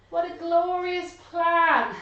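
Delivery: put-on high, pleased old lady voice; delighted old lady. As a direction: relish the plan.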